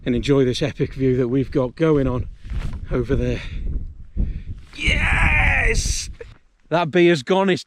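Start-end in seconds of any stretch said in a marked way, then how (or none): 4.8-6.1 high excited yell; triumphant shout. Real, not acted. Celebrating finishing the beer.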